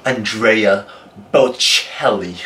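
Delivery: The singer's name said the American way, flat vowels; American accent. Shown as a demonstration. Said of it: "You just said it American".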